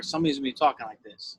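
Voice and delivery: put-on quick Delco accent, casual; a touch of Delco, quick. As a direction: rattle it off in a light Delco accent. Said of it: "talk in my Delco accent".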